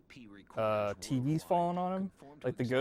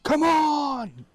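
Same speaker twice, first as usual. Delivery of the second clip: high, loud pleading call; urgent call; 14 semitones higher, 7 dB louder than usual. Retold or imitated. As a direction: shout it out eagerly. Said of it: "She's like".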